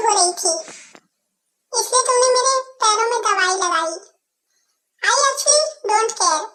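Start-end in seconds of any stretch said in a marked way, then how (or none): 5.0-6.4 slow, drawn-out dismissive retort. Acted. To the girl after she treated his feet, slow and dismissive. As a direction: drag out each word to show you don't care.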